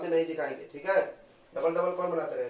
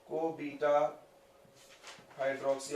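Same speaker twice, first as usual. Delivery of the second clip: slow dictation; 2 semitones lower, 5 dB quieter, much slower than usual. Shown as a demonstration. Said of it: "अब तुमको समझा होगा इसका full form".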